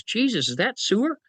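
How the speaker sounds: high, disgusted question rising at the end; disgusted chief of staff. Retold or imitated. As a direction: recoil at a sewer smell. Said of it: "He says".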